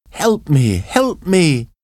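high, urgent plea for help; cry for help. A narrator's reading. Injured survivor calling from the wreck, high desperate cry. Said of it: "the person cried".

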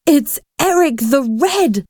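high-pitched, fearful exclamation; fearful stage whisper. A narrator's reading. Boy recognises the frightening ghost, fearful whisper. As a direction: say it in high, hushed dread. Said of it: "whispered Paul, trembling with fear".

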